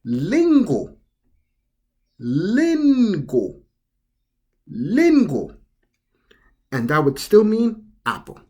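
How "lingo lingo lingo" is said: lingo with the R turned into a tongue-tip L; Japanese pronunciation. Shown as a demonstration. Teacher showing the second way to say apple, careful demo. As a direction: lingo said clearly, two even syllables. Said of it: "we would say it as".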